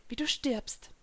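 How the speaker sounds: soft, menacing whisper; sinister hushed words; whispered threat. A narrator's reading. Villain threatens heroine with death.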